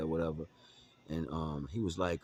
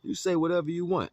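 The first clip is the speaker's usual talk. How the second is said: high, louder, fired-up telling-off; heated retort; 12 semitones higher, 5 dB louder than usual. Retold or imitated. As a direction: cut him off, heated and high. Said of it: "I'm like".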